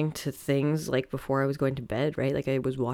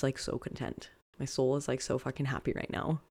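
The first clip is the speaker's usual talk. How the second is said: soft and content; 6 dB quieter than usual. Real, not acted. Soul content, said softly.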